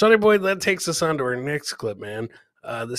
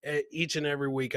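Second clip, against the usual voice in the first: sincere thanks; 5 dB quieter than usual. Real, not acted. Sincere thanks after singing.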